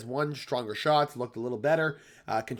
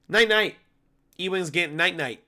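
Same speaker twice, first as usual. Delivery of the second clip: taunting; 5 semitones higher than usual. Acted. Taunting knockout call.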